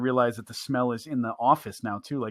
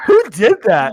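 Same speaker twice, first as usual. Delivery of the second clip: raised, loud accusing call; loud who-did-that call; mock loud demand; 8 semitones higher, 15 dB louder, slower than usual. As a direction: bark it out like an accuser in the office. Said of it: "they're like".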